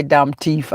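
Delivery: "thief" said "teef", heard as "teeth"; imitated catchphrase. Requesting the friend's line, "thief" pronounced "teef". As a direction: drop the TH of "thief" to a hard T. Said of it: "I wanna hear you say that".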